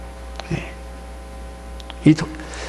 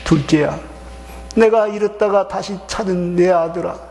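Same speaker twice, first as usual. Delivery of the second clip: longing call; 4 semitones higher than usual. Acted. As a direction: call out to the lost son with aching love. The father calling his lost son.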